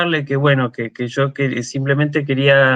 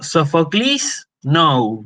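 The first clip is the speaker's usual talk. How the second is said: drawn-out Greek "Sofoclis", then an English "no"; mixed Greek-English; much slower than usual. Retold or imitated. Theater guard scolding the reciter, imitated Greek-English mix. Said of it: "me mezcló el griego con el inglés".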